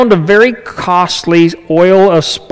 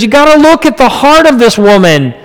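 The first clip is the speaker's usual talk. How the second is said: lightly voiced Jesus, higher and earnest; a hint of Jesus pleading for the woman; Jesus answering Judas, higher and earnest; Jesus defending her; 9 semitones higher, 4 dB louder than usual. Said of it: "And Jesus says".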